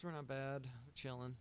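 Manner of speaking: usual speaking voice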